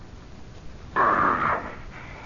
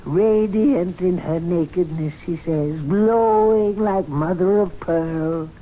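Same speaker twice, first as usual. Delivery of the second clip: mock rapturous quote; slower than usual. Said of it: "Imagine Mister Ashley talking like that".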